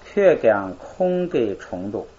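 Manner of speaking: slow, syllable by syllable read-aloud; slow model reading. Shown as a demonstration. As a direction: read it slowly for the class to repeat. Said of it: "咱们来读一读啊".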